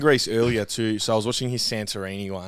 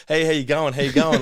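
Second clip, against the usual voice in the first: imitating Spanion; 4 semitones higher, 3 dB louder than usual. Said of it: "He was like".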